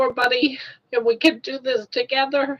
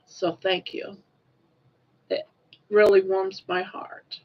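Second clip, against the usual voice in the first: heartfelt thanks; 2 semitones lower than usual. Real, not acted. Woman telling supporters they touched her, heartfelt.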